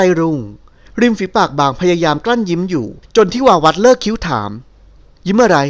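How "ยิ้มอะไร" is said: higher, provocative challenge, spoiling for a quarrel; picking a fight. Acted. Nilda needles the man who gives her orders, combative and higher. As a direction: toss the questions back at him to pick a fight. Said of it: "หล่อนถามขึ้นน้ำเสียงหาเรื่อง".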